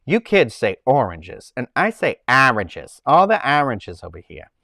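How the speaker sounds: slow, exaggerated Rhode Island accent mimicking mom; teasing her mother's thick Rhode Island accent. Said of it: "filthy Rhode Island accent".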